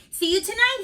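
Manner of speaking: high, loud breezy farewell; cheery goodbye. Acted. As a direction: call it out in a hurry. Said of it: "he said".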